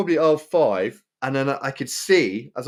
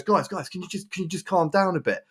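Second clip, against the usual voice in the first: slightly higher, gently pleading imitation; lightly voiced peacemaker; 4 semitones higher than usual. Trolley worker asks two men to calm down, mild pleading. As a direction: lightly mimic someone asking for calm. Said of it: "this lovely Morrison's trolley dude".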